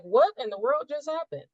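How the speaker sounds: mock astonishment. Retold own astonished reaction.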